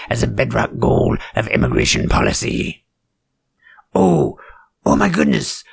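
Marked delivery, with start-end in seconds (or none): 4.0-5.6 sarcastic surprise. Acted. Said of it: "I'm so surprised".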